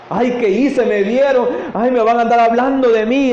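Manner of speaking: high, fretful pretend lament; mock tearful woman. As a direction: imitate a woman panicking over gossip. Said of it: "eso me provocaba llanto".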